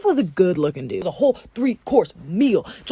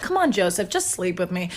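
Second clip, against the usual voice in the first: soft coaxing; 4 semitones lower, 5 dB quieter than usual. Acted. Wife begging Joseph.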